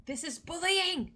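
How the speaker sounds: high, drawn-out cry of mock protest; mock outrage. Streamer protesting at being teased, mock outrage. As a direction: wail it in playful indignation.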